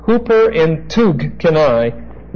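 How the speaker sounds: "Huper entugkanai" said slowly and carefully; slow "Huper entugkanai", stress on "Huper"; Greek phrase pronounced. Shown as a demonstration. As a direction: spell out "Huper entugkanai" as HOO-per en-toog-kah-NYE. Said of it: "E N T U G C H".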